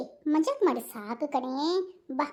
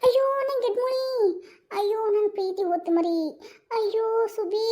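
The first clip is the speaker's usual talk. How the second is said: mock coaxing; 4 semitones higher than usual. Husband coaxes crying wife.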